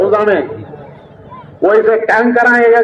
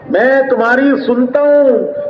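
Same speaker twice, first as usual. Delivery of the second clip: slow emphatic; 2 semitones higher, slower than usual. Shown as a demonstration. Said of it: "repeated slower".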